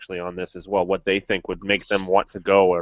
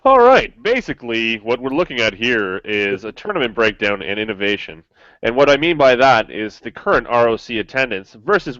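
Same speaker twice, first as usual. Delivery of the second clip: big announcer opening, then lightly kept; movie guy voice; 2 semitones higher than usual. Pretend. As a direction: introduce it like a movie trailer. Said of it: "in my movie guy voice".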